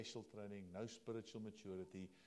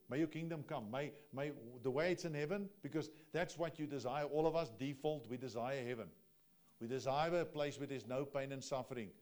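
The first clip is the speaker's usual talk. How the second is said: fervent preaching; 5 dB louder than usual. Acted.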